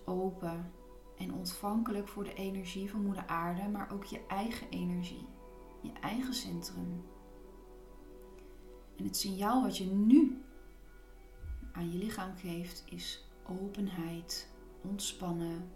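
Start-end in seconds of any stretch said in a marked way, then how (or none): 3.7-7.0 whispering. Real, not acted. Soothing guided relaxation. 11.7-15.7 whispering. Real, not acted. Soothing guided relaxation.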